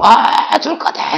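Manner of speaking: high-pitched mock squeal; panicking chick. Preacher plays a falling chick, panicked squeal. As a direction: squeal like a terrified baby bird. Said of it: "병아리처럼".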